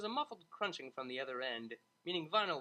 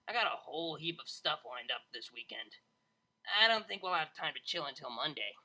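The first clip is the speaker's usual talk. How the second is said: brash DJ voice. Acted. Vinyl voiced in story.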